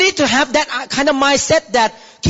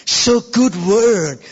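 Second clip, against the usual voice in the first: appreciative murmur; 4 semitones lower than usual. Retold or imitated. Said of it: "you say".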